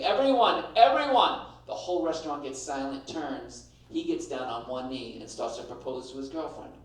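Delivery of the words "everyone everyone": calling the room. Retold or imitated. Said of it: "He's just like".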